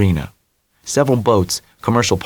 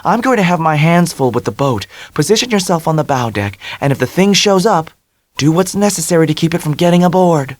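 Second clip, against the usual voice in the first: commanding Dell; 8 semitones higher than usual. A narrator's reading. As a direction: give firm instructions. Dell voiced.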